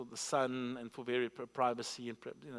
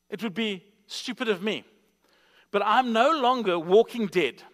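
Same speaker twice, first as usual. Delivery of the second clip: higher-pitched, emphatic sermon delivery; forceful preaching; 5 semitones higher, 9 dB louder than usual. Real, not acted. Preacher telling congregation he is no longer walking dead, forceful preaching. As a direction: drive each point home to the congregation.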